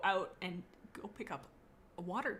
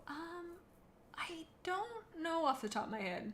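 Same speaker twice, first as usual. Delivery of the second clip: normal talking voice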